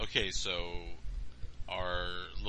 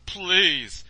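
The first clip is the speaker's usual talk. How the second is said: slow, louder plea; pleading boy; 10 semitones higher, 13 dB louder than usual. Acted. Boy begging Santa to dress, slow louder plea. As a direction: draw out the plea.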